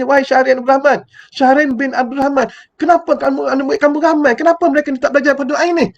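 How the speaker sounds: measured, grave summons by name; a touch of a stern questioning voice; solemn divine questioning. Retold or imitated. God questions the ustaz on judgment day, solemnly. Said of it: "Allah Ta'ala tanya".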